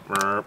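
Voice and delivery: soft, low mimicked frog burp; imitated frog croak. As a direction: imitate a frog's short croak. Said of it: "we can hear 'em behind us".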